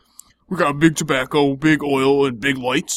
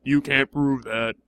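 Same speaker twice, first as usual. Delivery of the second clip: slow sing-songy taunt; slower than usual. Acted. Needling Kyle about market research, slow and sing-songy. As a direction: draw it out like a smug little tune. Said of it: "you say it in a sing-songy voice".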